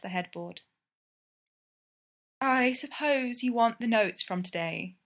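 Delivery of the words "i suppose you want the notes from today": long-suffering. Acted. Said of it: "Belle says long-sufferingly".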